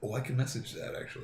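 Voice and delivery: leaning in to whisper. Real, not acted. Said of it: "I don't know why you're whispering".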